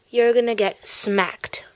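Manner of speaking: slow menacing whisper; whispered threat. Acted. Bully threatens.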